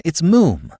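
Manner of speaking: Moom said as "moom" rhyming with bloom; pronounced Moom. A narrator's reading. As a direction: give Moom a long oo. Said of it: "but pronounced Moom".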